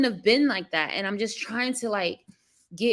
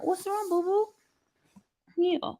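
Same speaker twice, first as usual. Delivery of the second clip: put-on high, soft cooing baby talk; mock nurturing coo; 10 semitones higher, 4 dB quieter than usual. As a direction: coo it like comforting a little one. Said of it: "and care and nurture".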